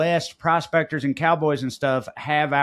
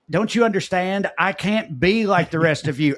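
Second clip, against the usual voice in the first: high, loud, desperate outburst; hammed-up frantic yell, rising in pitch; mock screaming; 6 semitones higher, 4 dB louder, slower than usual. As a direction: scream it at the others, peaking on the last word. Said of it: "screaming at the rest of them".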